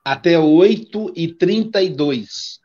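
slow, clear repeat for a listener; to someone hard of hearing. Real, not acted. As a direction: spell it out slowly so she hears. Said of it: "Eu não estou ouvindo".

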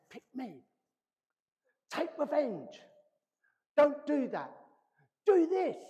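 lightly voiced temptation coaxing; tempting voice of sin. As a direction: coax like sin whispering at the door. Voicing sin's temptation.

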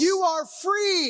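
high, slow, shouted declaration; triumphant preaching. Real, not acted. Preacher tells congregation they are freed, triumphant drawn-out shout. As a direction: draw out each word high, declaring victory.

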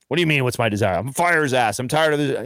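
mildly indignant comeback, pitch lifted; imitating a worked-up, fed-up retort; retold angry protest. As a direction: push back at the question, lightly acting anger. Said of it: "I'd be angry".

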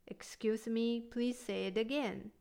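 gentle, polite asking; softly asking someone to repeat; soft polite request. Shown as a demonstration. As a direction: ask softly, without pushing. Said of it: "Make it soft".

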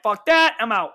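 mock exasperated quit. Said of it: "was like".

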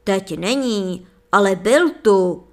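loud roaring sorcerer. A narrator's reading. Sorcerer roars at the princess, searching the room. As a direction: roar it out in a rage. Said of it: "řval čarodějník".

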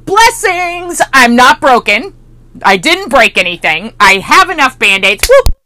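high, bright burst on Blessings; excited. Retold or imitated. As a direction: cheer the good news. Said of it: "I went".

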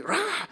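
high-pitched mock Hulk roar, kept quiet; mock angry roar. Preacher describing a Hulk meme to congregation, mock angry roar. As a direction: give a small, strained imitation of a raging roar. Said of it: "he's angry and he's like".

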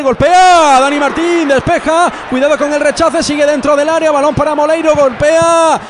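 rising, urgent call of the scramble; excited play-by-play. Real, not acted. Goalmouth scramble, rapid calls.

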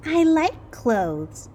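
lightly voiced eager kid; Wilbur's voice. A narrator's reading. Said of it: "replied Wilbur".

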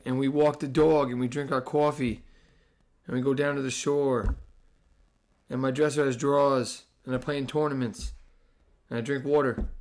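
matter-of-fact New Jersey accent; Jersey Yankee accent. Shown as a demonstration. Host showing how he grew up talking, Jersey accent. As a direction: show off Jersey vowels on dog, coffee and drawers. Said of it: "I'm a Yankee".

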